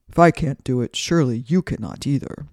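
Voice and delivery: proud, blustering wind voice; boastful wind. Acted. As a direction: play the bragging wind. Wind sulks after losing.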